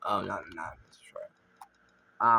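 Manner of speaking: ordinary delivery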